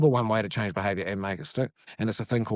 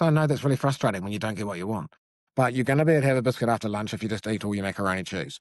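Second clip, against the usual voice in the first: validating parent. Shown as a demonstration. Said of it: "or, you know, just".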